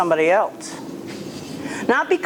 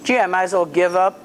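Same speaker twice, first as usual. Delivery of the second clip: quick, resigned inner voice of the dog; voicing the dog's thoughts; 3 semitones lower, much faster than usual. Trainer voices the dog giving up, quick and resigned. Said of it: "he's gonna decide".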